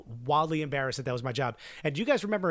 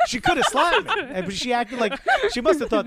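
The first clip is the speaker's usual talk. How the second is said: high, laughing through the words; 10 semitones higher, 7 dB louder than usual. Real, not acted. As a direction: tell it while cracking up. Laughing at own brazen story.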